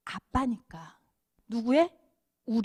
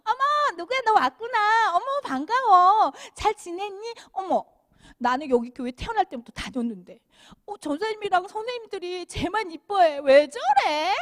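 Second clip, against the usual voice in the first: much higher, cooing welcome turning to jealous grumble; gushing church grown-up; 5 semitones higher than usual. Retold or imitated. Church kid mocking adults fussing over a newcomer, jealous. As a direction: fuss over the new kid, then sulk.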